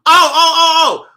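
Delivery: high, loud laughing oh; laughing shock. Real, not acted.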